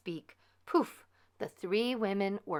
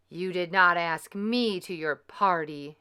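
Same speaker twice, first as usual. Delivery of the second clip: wicked fairy; 6 dB louder than usual. Acted. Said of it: "The wicked fairy smiled a terrible smile".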